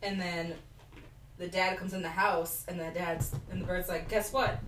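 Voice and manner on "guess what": louder, fast taunting sing-song; gloating bird. Retold or imitated. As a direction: rub it in like a smug villain. Bird taunting the trapped dad.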